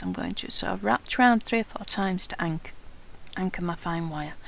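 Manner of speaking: speaking with the hiccups. Real, not acted. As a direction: talk through hiccups. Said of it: "I've got the hiccups".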